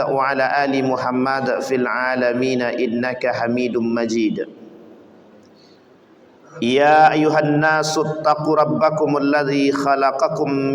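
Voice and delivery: measured, intoned Arabic recitation; formal Arabic sermon opening. Acted. Preacher opening the dawn sermon, reciting in a reverent chant.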